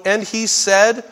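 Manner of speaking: slow, weighty "said"; emphatic. Shown as a demonstration. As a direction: stress on "said", drawn out. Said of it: "that is emphatic".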